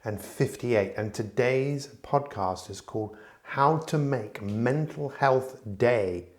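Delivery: emphatic, measured announcer read; podcast intro. Acted. Host announcing the episode to listeners, announcer style. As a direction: announce the episode with drawn-out key words.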